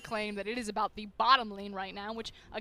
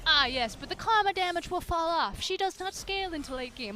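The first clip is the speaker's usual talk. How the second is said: put-on pompous D and D fantasy accent, higher and louder; 6 semitones higher, 4 dB louder than usual. Caster mocking know-it-all analysts in a put-on D and D accent. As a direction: lord it over the room in your D and D accent. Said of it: "I don't know why I'm using this accent".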